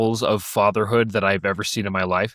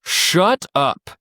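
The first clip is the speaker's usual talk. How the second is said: raised pitch, imitating a fed-up leader; mock telling-off, pitched up; mild retold exasperation; 4 semitones higher, much slower than usual. Junior scoutmaster to the hungry kid, mildly exasperated.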